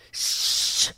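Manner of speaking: long, imitated hushing hiss; patronizing shush. Passenger shushing her podmate, patronizing. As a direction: shush them like a scolded child. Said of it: "the shush is so patronizing".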